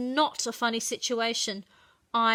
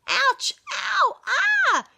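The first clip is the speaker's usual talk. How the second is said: high, loud cries of pain; yelling in agony; 13 semitones higher, 6 dB louder, much slower than usual. A narrator's reading. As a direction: howl it like your feet are burning. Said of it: "He is yelling and howling in agony".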